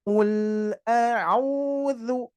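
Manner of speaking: "Ul" with a short, flowing l; flowing lam. Shown as a demonstration. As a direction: let the l in "Ul" flow a little. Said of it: "dialirkan dulu".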